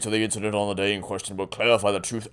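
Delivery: low, soft, cold prosecutor. Acted. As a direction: order the bailiff coolly. Voices the prosecutor.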